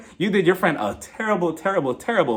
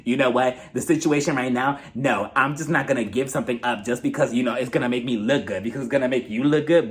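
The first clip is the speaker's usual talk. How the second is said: lowered, insistent mock-defensive voice; 5 semitones lower than usual. Erica refusing to give up the earrings, mildly defensive. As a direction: retell her pushback in a lower pitch. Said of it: "she becomes extremely defensive".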